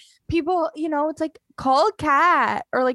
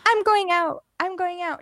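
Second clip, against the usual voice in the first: put-on teen brushing off dad; 7 semitones higher than usual. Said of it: "she'd be like".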